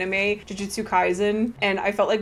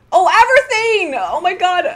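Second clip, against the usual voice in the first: high, loud delighted outcry of a name; excited cry; 8 semitones higher, 9 dB louder than usual. Real, not acted. Streamer spotting a friend in the relay, calling out excitedly. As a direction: call out the name in sudden delight. Realizes the blesser is her friend.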